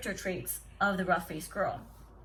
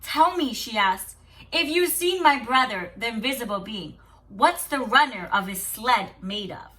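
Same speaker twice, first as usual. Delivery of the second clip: in excitement; 6 dB louder than usual. Acted. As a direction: ask it with bright eagerness. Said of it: "exclaimed the sister in excitement".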